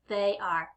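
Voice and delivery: THEY ARE as two syllables, falling at the end. Shown as a demonstration. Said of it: "Let's put that as two syllables".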